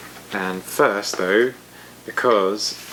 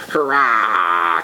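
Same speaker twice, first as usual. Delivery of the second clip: a louder cackled cheer in a changed voice; cackling witches; 4 dB louder than usual. A narrator's reading. Witches cackling a cheer for the dragon. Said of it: "cackled rapturous witches".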